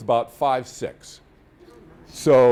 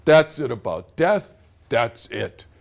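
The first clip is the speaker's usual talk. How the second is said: imitated dad, slow and louder at first; adamant dad; 3 dB louder, slower than usual. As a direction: lay it down like an adamant father. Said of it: "That's the way my dad was".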